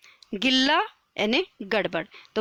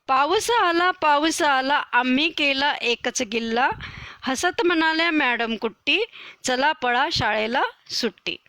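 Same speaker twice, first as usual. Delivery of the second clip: poem recitation; 2 semitones higher than usual. Acted. Teacher reciting the rain poem to her pupils, sing-song recital. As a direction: recite the verse brightly for the class.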